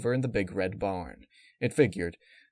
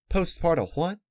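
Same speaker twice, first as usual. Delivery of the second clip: a higher puzzled question; confused by the strange word; 8 semitones higher, 4 dB louder than usual. A narrator's reading.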